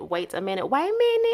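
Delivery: put-on home-grown Georgia accent. Repeating own phrase for viewers, Georgia way of saying it. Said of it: "Did y'all hear how I said".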